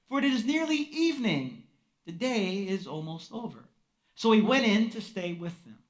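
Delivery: measured Bible reading, fading to a hush at the end; scripture reading. Acted. Preacher reading Luke to the congregation, measured scripture reading. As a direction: read the passage to the congregation. Reads the scripture passage aloud.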